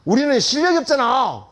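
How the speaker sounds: sudden loud, high retort; angry outburst. Retold or imitated. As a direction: blurt it out angrily, imitating an indignant student. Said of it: "화를 버럭 내는 거야".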